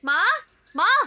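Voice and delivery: insistent calls for mother; calling out loudly. Acted. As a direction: call mum from across the house. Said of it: "इतना चीख रही है". (माँ को ज़ोर से पुकारते हुए)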